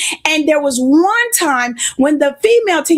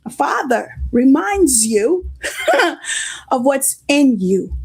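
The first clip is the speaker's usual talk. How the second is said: laughing; slower than usual. Real, not acted. Laughing mid-line.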